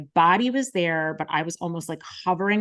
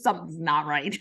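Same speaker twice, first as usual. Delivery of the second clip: laughing. Real, not acted. Laughs through retold thought.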